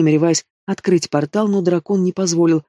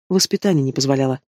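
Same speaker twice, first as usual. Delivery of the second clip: ordinary delivery, nothing marked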